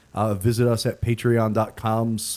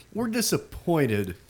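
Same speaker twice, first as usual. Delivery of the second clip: dad voice; 3 semitones higher than usual. Pretend. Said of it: "It's, it's the dad voice".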